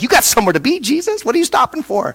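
impatient crowd. Retold or imitated. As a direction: lightly mimic an impatient onlooker. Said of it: "you can imagine the crowd".

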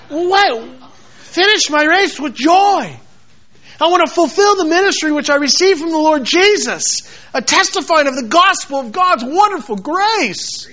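sour lemon-mouthed. Pretend. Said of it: "they got a lemon in their mouth".

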